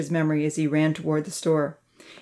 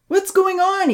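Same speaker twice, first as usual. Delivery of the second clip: high, loud alarmed question; calling out; 14 semitones higher, 5 dB louder than usual. A narrator's reading. Uncle Louie runs from his cabin, calling out. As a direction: call it across the yard, pitched up. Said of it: "he called out".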